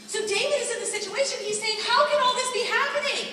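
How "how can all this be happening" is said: mock anguish. David voiced in anguish.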